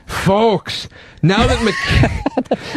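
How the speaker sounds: Craig Ferguson impression. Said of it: "the Craig Ferguson voice".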